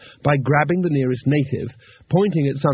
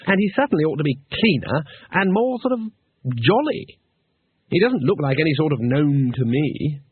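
Two Flower; 3 semitones higher than usual. Acted.

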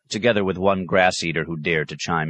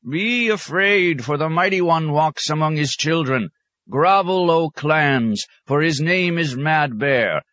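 ceremonial wail; 10 semitones higher than usual. A narrator's reading. Old warrior praising Mad Bear to the clans, high ceremonial wail. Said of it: "ceremonially wailed".

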